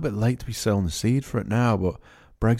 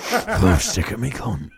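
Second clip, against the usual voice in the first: put-on British porn accent; slower than usual. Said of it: "the British thing on it".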